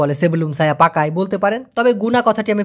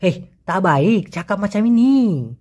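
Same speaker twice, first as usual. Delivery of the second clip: Malaysian accent. Shown as a demonstration. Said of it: "ওরা যখন বলবে তখন কিন্তু এরকমই বলে".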